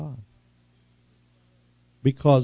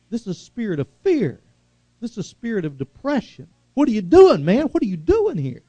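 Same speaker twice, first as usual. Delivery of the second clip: God questioning again. Retold or imitated. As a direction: coax first, then confront. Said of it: "God asks the question".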